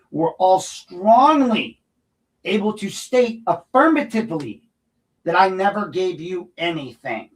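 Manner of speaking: "strongly" and "affirmatively" drawn out high; indignant emphasis. Real, not acted. Resident throwing officials' denial back at them, indignant emphasis. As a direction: hit "strongly" loud, high and very slowly.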